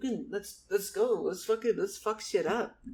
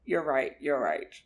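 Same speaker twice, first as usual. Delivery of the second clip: put-on old man. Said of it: "Charles was like".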